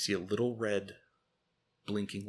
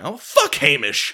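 laughing dismissal; 4 semitones higher, 10 dB louder, slower than usual. Retold or imitated.

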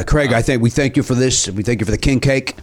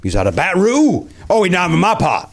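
put-on Cajun accent; 2 semitones higher than usual. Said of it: "you're still doing the accent".

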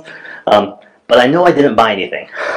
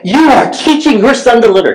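high mock scold; the lady accusing him in front of his son; imitating accusing lady; 11 semitones higher than usual. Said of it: "And she's like".

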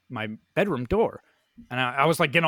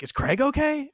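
put-on much higher-pitched girlfriend question; imitating girlfriend; 11 semitones higher than usual. Girlfriend waking up to check on Craig, high-pitched imitation. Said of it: "Emily's like".

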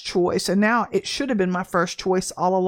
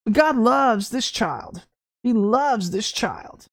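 tender affirmation; much slower than usual. Real, not acted.

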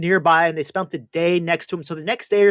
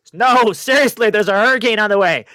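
megaphone call; 3 semitones higher, 4 dB louder than usual. Retold or imitated. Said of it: "got the megaphone".

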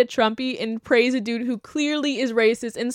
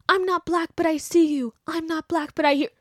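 higher, softer, syrupy mock sincerity; mock earnest ally; 6 semitones higher, 4 dB quieter than usual. Mocking white people's posts, high and syrupy sincere. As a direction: parody a performative ally, sugary. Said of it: "They're like".

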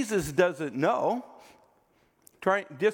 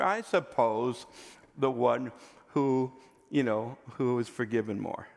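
resistant answer; 4 semitones lower than usual. Retold or imitated. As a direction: give the answer like a man cornered into admitting it. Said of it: "you kinda get kind of a resistant answer".

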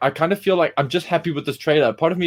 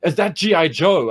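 imitating a wowed viewer, higher pitch; retold amazement; 3 semitones higher, 4 dB louder, much slower than usual. Teacher quoting intern watching Snake Eyes trailer, amazed. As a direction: mimic her impressed surprise.

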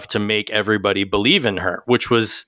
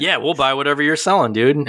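laughing; 4 semitones higher than usual. Retold or imitated. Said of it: "So they're like".

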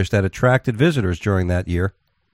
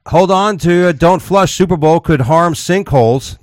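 announcer voice; 8 semitones higher, 4 dB louder, slower than usual. Real, not acted. Announcing next story.

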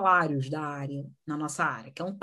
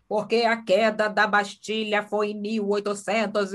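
slow, droning lecture tone; boring lecturing teacher; 3 dB louder, slower than usual. Retold or imitated. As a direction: drone on like a dull history teacher. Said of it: "se você tá falando assim". (professora monótona e arrastada)

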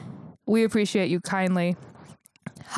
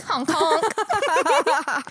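silly clown; 6 semitones higher than usual. Pretend. Echoing the honk, laughing.

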